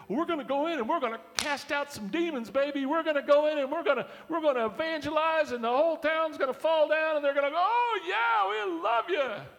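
high, loud overexcited bragging; cocky disciple. Acted. Boastful disciple James bragging to Jesus, hammed up high and loud. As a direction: brag like a naive glory-seeker. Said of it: "He sent two of the Nimrods".

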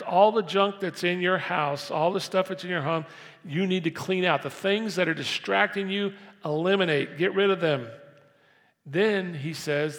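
loud, urgent sermon delivery; full-force preaching. Acted. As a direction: drive the promise home to the congregation. Preaching Job's promise loudly.

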